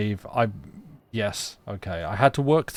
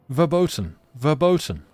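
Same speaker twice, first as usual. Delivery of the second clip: higher, louder narrated shout; shouting in German; 6 semitones higher, 6 dB louder than usual. A narrator's reading. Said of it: "shouting in terrible German".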